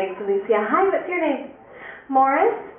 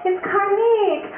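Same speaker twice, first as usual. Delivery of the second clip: higher, drawn-out letdown; mock disappointment; 4 semitones higher, much slower than usual. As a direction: imitate a let-down family, very slowly. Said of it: "His whole family's disappointed".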